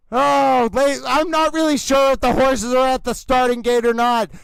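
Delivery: overwrought race-caller, gasping oh before each ladies and gentlemen; intense announcer voice. Acted. Announcer hypes the fan and the horses, overwrought.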